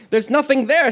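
understated acted astonishment; exclaiming. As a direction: exclaim it with mock surprise. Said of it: "she exclaimed".

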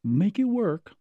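lightly voiced fashion mentor, high at the end; mock Tim Gunn rallying designers; imitating Tim Gunn. Mock host rallying designers, high finish.

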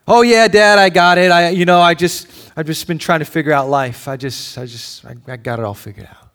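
brash son, loud then trailing off to a mumble; cocky son. Retold or imitated. Son brushing off his father, cocky then mumbling. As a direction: brush off your worried dad, then fade.

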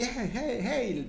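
repeated high herding calls, not shouted; imitated shepherd's call. Shepherd herds sheep with his staff, mock high calls. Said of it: "no sé cómo les hagan".

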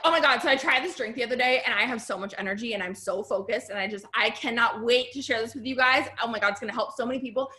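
gushing, eager pitch that speeds up at the end; enthusiastic sales pitch. Shown as a demonstration. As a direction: sell it like you can't wait to share it. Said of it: "It's literally if I was like".

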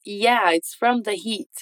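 slow falling statement; slow model line. Shown as a demonstration. Teacher repeats James's answer slowly. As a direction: read it slowly, landing on "heat". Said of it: "Então".

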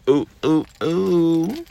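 high, loud ooh ooh ooh; excited squeal. Real, not acted. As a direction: squeal with delight. Excited squeals after boast.

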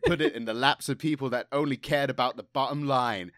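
mannered actor impression, mildly theatrical; a hint of an aggrieved star's monologue; John Malkovich. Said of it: "Can I do a Malkovich impression?".

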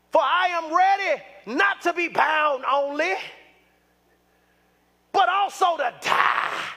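preaching shout, drawn out; declaring Paul's vow. Acted. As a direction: proclaim it like a man ready to die.

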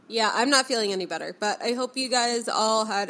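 stuffy nose; talking through a blocked nose; congested. Real, not acted. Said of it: "incredibly congested".

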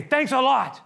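loud, high, bitter sarcasm; sarcastic thanks. Acted. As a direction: throw the thanks back at him. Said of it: "they say".

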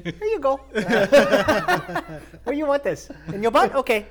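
mock Asian delivery guy. Tiny delivery guy handing over the order, high giggling mock accent. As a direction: squeak it out like a tiny courier. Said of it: "a little short Asian".

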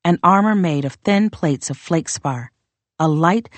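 ordinary delivery

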